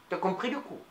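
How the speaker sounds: "coup" asked low and soft; quiet low question. Acted. Asks again, quietly. (question murmurée, grave et douce)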